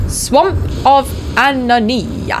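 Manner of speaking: high, slow, grand announcing; mock-solemn high voice; silly voice. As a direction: pronounce the name like a grand herald. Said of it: "I don't know why I said it in that voice".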